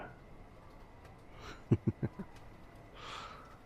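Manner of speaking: breathy, drawn-out chuckle; teasing chuckle. Acted. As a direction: laugh softly through the breath. Chuckles after the offer.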